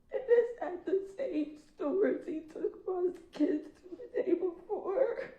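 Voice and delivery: high, slow, breaking voice; real tears, slow and high; crying. Real, not acted. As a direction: push through the sobs. Still crying over the loss.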